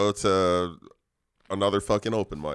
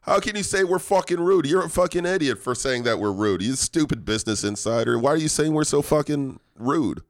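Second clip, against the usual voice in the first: high-pitched hammed-up indignation; mock outrage; 4 semitones higher than usual. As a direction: rant like an offended local, playing it up. Acting an outraged Chicagoan after ranking.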